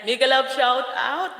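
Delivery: reading the comment again slowly after stumbling, careful. Shown as a demonstration. Slow, deliberate read. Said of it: "pagbasa ko niyan".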